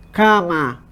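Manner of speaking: "Cama" with a nasal first vowel, "kã-ma"; a low, separate "Cama", nasal A before the M; nasalized demo. Shown as a demonstration. Teacher has students pinch noses and repeat, nasalized demo. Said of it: "aperte o nariz e repita a palavra cama".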